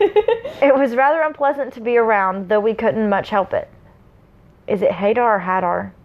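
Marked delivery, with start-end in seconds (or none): 0.0-3.7 measured storyteller's read; story narration. A narrator's reading. Reading the prologue to listeners, story narration. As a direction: read it out with mild dramatic weight.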